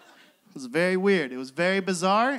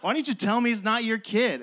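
imitating an indignant cashier, pitched up; retold anger; 4 semitones higher than usual. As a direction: act out her mild outrage. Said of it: "She was so mad".

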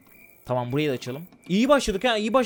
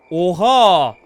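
amazed; 10 dB louder than usual. Real, not acted. Amazed exclamation.

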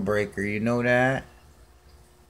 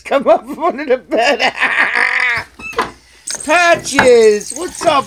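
much higher, louder, laughing in places; high coaxing pet talk; 12 semitones higher, 9 dB louder than usual. Real, not acted. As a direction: coax the cat out from under the bed. Coaxing cat from under bed.

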